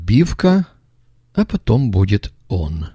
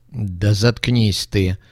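rough snap; much slower than usual. Acted. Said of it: "прервал его грубый".

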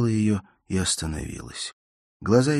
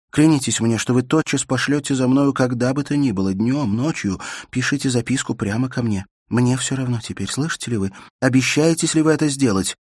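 higher, louder, desperate insistence; urgent demand; 7 semitones higher, 7 dB louder than usual. Acted. Elena demands Bersenev swear to send for her, desperate and loud.

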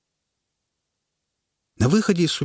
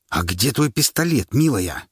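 menacing rasp; 3 semitones higher than usual. Acted. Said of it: "угрожающе прохрипел Паша".

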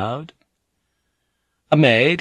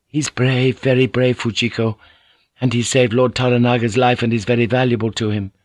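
Mariko's voice; 3 semitones higher than usual. Acted.

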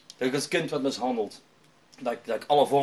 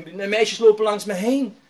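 higher, louder, drawn-out lament; imitated sobbing despair; 5 semitones higher, 5 dB louder, slower than usual. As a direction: stretch out a retold complaint of rejection. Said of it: "hij was echt een snikken".

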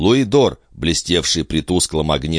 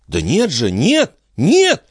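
put-on high child insisting, louder at the end; protesting boy; 12 semitones higher, 3 dB louder, slower than usual. A narrator's reading. Son denying he lost the coin, protesting. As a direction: protest like a wronged little boy. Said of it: "повторял мальчик".

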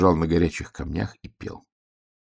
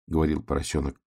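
usual speaking voice

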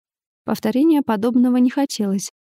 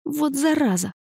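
mild curse; 6 semitones higher than usual. A narrator's reading. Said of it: "выругалась я".

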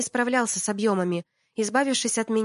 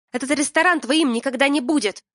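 vengeful hiss; 5 semitones higher, 7 dB louder than usual. Acted. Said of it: "мстительно прошипела я".

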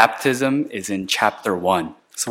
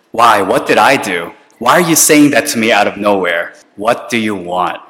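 suspicious student; 4 dB louder than usual. Retold or imitated. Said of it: "they might not believe it".

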